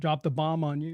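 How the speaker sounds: ordinary talk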